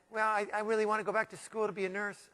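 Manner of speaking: soft, hesitant admission; meek. Retold or imitated. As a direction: say it shyly, barely daring to. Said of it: "kind of meekly said".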